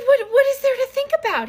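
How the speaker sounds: very high, laughing through the words; cracking up while asking; laughing disbelief. Retold or imitated. Wife asking husband through laughter, very high.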